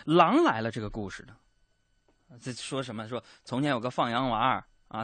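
ordinary delivery

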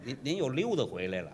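said softly under the breath, stress on 溜; muttered aside. Real, not acted. Quiet aside to the audience about his partner rambling. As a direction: mutter it to yourself. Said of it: "啊？".

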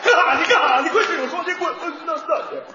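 put-on loud, high Northeastern Chinese accent singing. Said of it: "东北话唱出来".

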